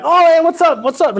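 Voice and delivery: high, eager dog greeting; happy dog. Retold or imitated. Teacher voicing an excited dog meeting a stranger, high. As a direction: gush like a friendly dog. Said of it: "the dog is so happy".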